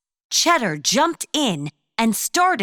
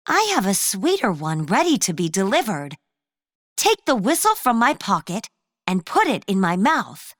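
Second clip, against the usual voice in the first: sweetest voice. Acted. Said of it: "in her sweetest voice".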